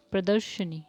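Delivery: फुसफुसाकर प्रदर्शनी; whispered repeat. Shown as a demonstration. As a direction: breathe the word प्रदर्शनी with no voice. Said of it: "प्रदर्शनी में क्या है".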